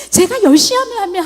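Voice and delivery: usual speaking voice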